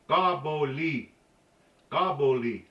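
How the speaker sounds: "Gaboli" said slowly with a light release on the G; gentle release. Shown as a demonstration. Teacher demonstrating the word for goat, slow and gentle. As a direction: ease into "Gaboli", little air out. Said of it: "little air out".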